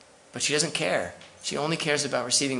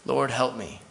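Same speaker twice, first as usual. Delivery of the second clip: plain, settled, sincere plea; quiet sincere prayer; slower than usual. Retold or imitated. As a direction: say it simply, as your own prayer. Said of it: "that's the best prayer".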